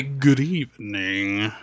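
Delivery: low, slow, proper gentleman; posh formal voice. Retold or imitated. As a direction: put on a slow, refined voice. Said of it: "and you say".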